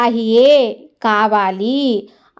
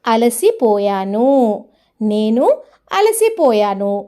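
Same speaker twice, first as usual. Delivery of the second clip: slow repeat; 3 semitones lower, slower than usual. Shown as a demonstration. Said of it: "बोलिए?".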